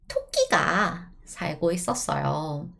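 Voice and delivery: quick, even once-upon-a-time reading; storytelling in Korean. Shown as a demonstration. Teacher telling students a Korean folk story, narrating. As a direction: tell it like a children's tale. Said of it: "I'm gonna tell you a story in Korean".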